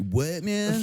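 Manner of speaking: a high, teasing "what, man?"; mock disbelief.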